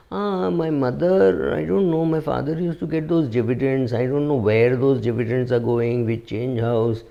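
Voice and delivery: mock the helpless son who knows nothing; a lightly voiced clueless son; imitating a confused heir.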